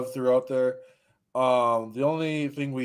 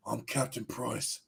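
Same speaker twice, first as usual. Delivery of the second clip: slow, much quieter character voice; John Price; 13 dB quieter, slower than usual. Acted. Unmasked soldier introducing himself, slow put-on voice. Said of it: "it's actually gonna be, like, John Price".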